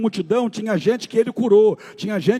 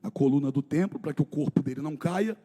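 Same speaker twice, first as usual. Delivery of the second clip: low, soft, grave retelling; hushed story narration; 7 semitones lower, 7 dB quieter than usual. A narrator's reading. Pastor narrating the scourging of Jesus, low and hushed. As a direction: let the horror sink in quietly.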